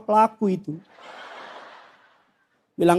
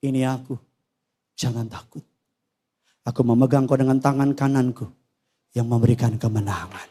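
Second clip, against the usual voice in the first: God's reassurance; 9 semitones lower than usual. Acted. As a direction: reassure gently, as God would. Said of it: "Dan dia akan bilang".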